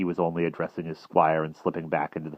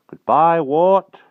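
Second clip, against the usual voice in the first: faint voices; 12 semitones higher, 11 dB louder, much slower than usual. A narrator's reading. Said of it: "cried two faint voices".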